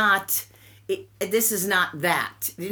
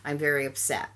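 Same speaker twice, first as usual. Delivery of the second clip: imitating a quiet, much softer word to her husband; soft and low, keeping it between the two of them; quietly; 5 semitones lower, 7 dB quieter than usual. Daughter-in-law quietly confronting her son, retold softly. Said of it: "said quietly to my son".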